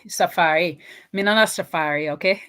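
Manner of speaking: rough imitation Jamaican patois; mock Jamaican accent. Telling viewers she's not Safari, playful Jamaican accent. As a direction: land the name in a put-on Jamaican lilt. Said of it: "me no have to do the accent properly".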